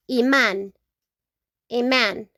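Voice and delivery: "imán" as ee-MAHN; Spanish pronunciation. Shown as a demonstration. Teacher modelling Spanish for magnet, "imán" stressed on MAHN. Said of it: "with an accent in the A".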